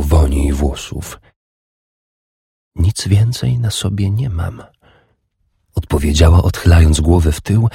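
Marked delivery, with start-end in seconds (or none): 2.8-4.6 a touch higher, softer woman's reply; lightly voiced woman. A narrator's reading. Urdis answering her lover, lightly voiced. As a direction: voice her gently, a little higher.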